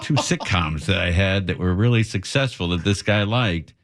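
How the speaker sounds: words broken by real laughter; laughing through it. Real, not acted. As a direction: laugh while you get the line out. Laughing while retelling dad's story.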